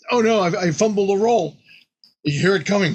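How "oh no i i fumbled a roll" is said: mock dismay. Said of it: "And it's like".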